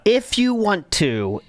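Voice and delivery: slow, emphatic IF at the start; stress on IF. Shown as a demonstration. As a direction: lean hard on IF, drawn out slowly. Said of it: "If is the key word".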